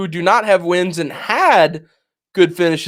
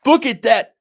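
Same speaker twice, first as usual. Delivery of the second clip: retold shocked exclamation; 7 semitones higher than usual. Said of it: "I just screamed".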